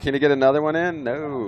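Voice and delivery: quick, rising call of the ride; excited commentary. Acted. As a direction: speed up, hoping for another turn. Live play-by-play.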